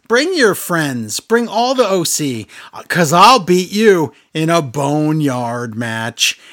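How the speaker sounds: slow, stretched-out wrestler's challenge, imitated; The Undertaker. Retelling a wrestler challenging his rival, slow imitated threat. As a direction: draw out the mock threat. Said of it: "he, he says".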